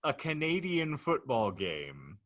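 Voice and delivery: deliberate, mock-grave narrator hitting key phrases hard; dramatic scenario reading. Real, not acted. Host unfolds the Canadian football future to laughing guests, dramatic narrator. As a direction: announce each absurd detail with ceremony. Reads out the hypothetical.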